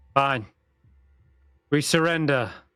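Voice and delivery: loud calling out in a character voice. Voicing a man who surrenders so the others stand down: calling out loudly in character. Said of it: "He calls out loud enough so that the others know".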